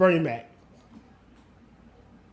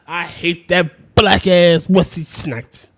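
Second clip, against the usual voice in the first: louder, slower, drawn-out rant; loud slow quote; 6 dB louder than usual. Retold or imitated. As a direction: belt it out slowly like a movie rant. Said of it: "the guy was saying".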